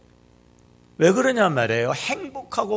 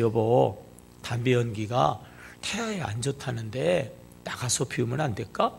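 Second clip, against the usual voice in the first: softly asking, tender wife; a mild gentle ask to her husband; gentle plea; 5 semitones lower, 5 dB quieter than usual. Retold or imitated. Pregnant wife gently asks husband to smoke outside, tender. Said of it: "그냥 다정하게 이야기했어요".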